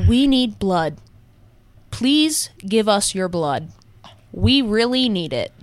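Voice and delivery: slow, flat, staring ad read; deadpan commercial voice. Retold or imitated. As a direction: plead for blood with no expression. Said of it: "Just like that. Like, deadpan staring at you".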